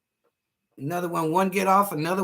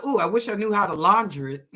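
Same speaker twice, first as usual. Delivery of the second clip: laughing quote; 3 dB louder than usual. Retold or imitated. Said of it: "you're laughing because you said".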